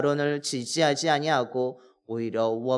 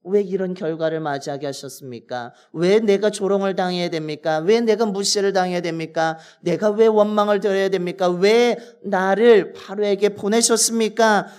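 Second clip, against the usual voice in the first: raised, louder pleading questions to God; pleading lament; 3 semitones higher, 4 dB louder than usual. Retold or imitated. Moses pleading with God over his failure, raised lament. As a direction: cry out why, as a wronged servant. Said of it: "라고 하면서 하나님 앞에 하소연하고".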